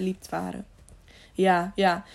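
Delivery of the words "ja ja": mildly grudging admission; reluctant. A narrator's reading. Servant admits to knights what he saw, reluctant. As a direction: give in reluctantly. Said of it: "hij onwillig".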